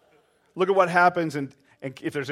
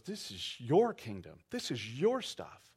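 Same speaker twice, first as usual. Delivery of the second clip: humble surrender; 2 semitones lower, 6 dB quieter, slower than usual. Retold or imitated. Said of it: "and he goes".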